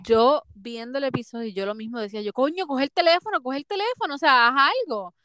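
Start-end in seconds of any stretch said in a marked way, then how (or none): 2.3-5.1 más agudo, urgente, exigiendo a la tele; grito imitado. Retold or imitated. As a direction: como si le gritaras al personaje. Le grita a la pantalla. (grito imitado a Carla desde el sofá, urgente)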